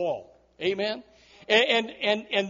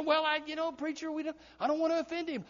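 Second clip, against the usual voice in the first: much softer, hesitant mock excuse; timid excuse; 4 semitones higher, 9 dB quieter, faster than usual. Church member excusing himself to the preacher, timid soft excuse. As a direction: back away from confronting anyone.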